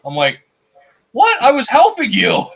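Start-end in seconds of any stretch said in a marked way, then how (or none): 1.1-2.4 high-pitched, pleading self-defence; hammed-up, high, wounded protest; mock indignant protest. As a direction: act out protesting your innocence to the buddy. Retold protest to angry buddy.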